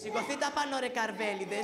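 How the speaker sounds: cheeky mimicry of the order; teasing echo of his father; mocking echo. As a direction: parrot the father back with a cheeky rhyme. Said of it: "που κοροϊδεύεις".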